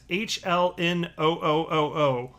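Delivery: letters stretched out slowly; spelled out slowly. Shown as a demonstration. Reading a Twitter handle letter by letter, slow and drawn out. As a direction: drag out each O. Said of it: "which I assume is to be pronounced hell no".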